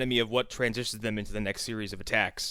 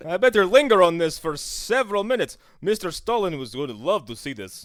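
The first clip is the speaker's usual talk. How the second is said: hammed-up proud cameraman, higher and louder; mock cameraman voice; 6 semitones higher, 5 dB louder than usual. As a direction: play the eager propaganda cameraman. Mock Soviet cameraman narrating.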